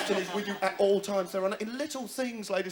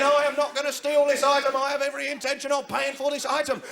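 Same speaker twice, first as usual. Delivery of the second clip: loud proclamation; 4 semitones higher, 4 dB louder than usual. Acted. Shopper loudly proclaims innocence.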